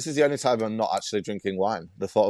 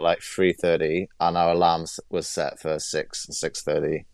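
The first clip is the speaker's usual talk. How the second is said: stuffy nose from a cold; nasal voice. Real, not acted. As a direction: speak with a blocked nose. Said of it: "excuse my nasally voice".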